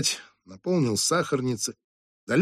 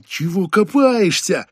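sharp, slower impatient scold; annoyed scolding; 6 semitones higher, 5 dB louder, slower than usual. Acted. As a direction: hurry the slow waiter up. Boss scolds slow waiter.

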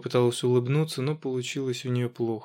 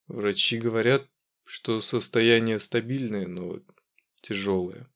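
dull emotionless voice; 2 semitones lower than usual. Acted. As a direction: hold the storm inside, speak dully. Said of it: "глухо ответил дядя Игорь".

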